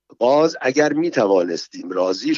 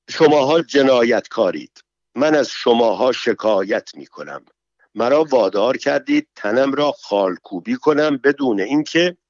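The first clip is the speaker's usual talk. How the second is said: mildly raised angry accusation; angry outcry. Acted. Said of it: "عصبانی شد و فریاد زد". (فریاد خشمگین ملایم)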